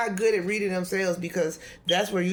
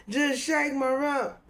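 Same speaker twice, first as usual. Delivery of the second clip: mock sing-song; 7 semitones higher, slower than usual. Playful chant of the text.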